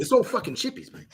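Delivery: high, put-on Australian voice; hamming up an Aussie bloke; mock Aussie. Mocking Australians in a put-on Aussie accent.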